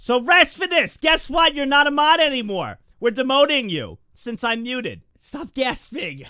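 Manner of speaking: high, loud ranting announcement; shouted demotion. Real, not acted. Streamer demotes a moderator for joining in, shouting. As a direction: yell it high, stretching out the final order.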